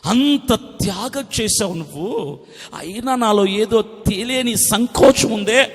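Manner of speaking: slow, drawn-out lament; acted sorrowful confession; demonstrated tearful prayer. Shown as a demonstration. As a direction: plead slowly, as if weeping in prayer. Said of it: "అని ఏడు".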